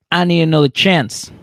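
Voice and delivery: high, loud pleading lover voice; hammed-up sweet talk to his girlfriend; mock smooth boyfriend. Retelling Derek begging Monique, hammed-up pleading.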